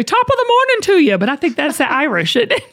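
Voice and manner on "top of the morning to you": high-pitched, quick mock British greeting; attempted British accent. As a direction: playfully fake a British accent, landing near Irish. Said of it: "Best British accent right now".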